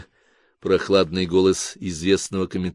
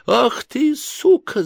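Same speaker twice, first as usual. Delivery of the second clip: much higher shriek; much slower than usual. Acted. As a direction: shriek the insult at her sister. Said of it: "завизжала Кларка". (визг)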